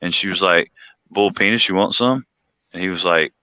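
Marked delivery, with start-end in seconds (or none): 1.1-2.2 down-home South Carolina twang, lightly imitated; imitated country South Carolina accent; thick South Carolina accent. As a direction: run "boiled peanuts" together as "bull penis" in Southern accent. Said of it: "got thick accent".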